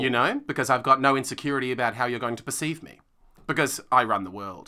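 straight voice, dropping on "perceive me" and "world"; downward sentence endings. Shown as a demonstration. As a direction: end each sentence going down, sure of yourself. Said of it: "there's more heterosexuality in that".

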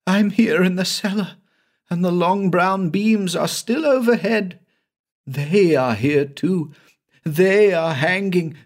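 high, horrified voice facing a dead man; frantic terror at the man he killed; shrieking in horror. A narrator's reading. Banks sees the dead Brian in the cellar, high horrified cries. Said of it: "he began to shriek".

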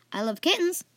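high-pitched little exclamation; exclaiming. A narrator's reading. Fan thinking of what he wants, exclaiming. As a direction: pipe up with delight. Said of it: "Fan exclaimed".

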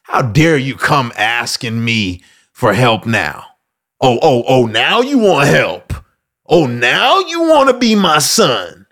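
slow, sarcastic scolding; mock scornful father. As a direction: drag out the scorn on each word. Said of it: "The father doesn't say".

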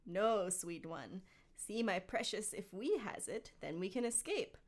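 a hint of scheming Gollum, theatrical; understated stagey creature voice; lightly voiced theatrical Gollum. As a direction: read it as a mildly theatrical Gollum. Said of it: "a theatrical voice".

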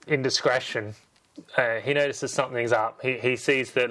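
normal talking voice

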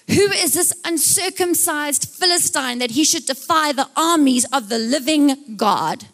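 emphatic indignant challenge, slowing at the end; acted outrage, weighty final phrase; mild retold outrage. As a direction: declaim it as an affronted young David. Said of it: "He is outraged".

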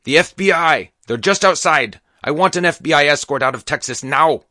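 high, loud frantic demands; frantic shouting. A narrator's reading. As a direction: yell demands like a cornered man. Hostage-taker keeps yelling demands.

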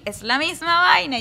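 put-on high, loud kid complaint; mock frustrated outburst. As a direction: whine it like a fed-up kid. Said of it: "yo decía".

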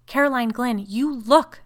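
loud, high, alarmed order; urgent command. A narrator's reading. Frightened woman orders her sister to look, urgent. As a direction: call out sharply in alarm.

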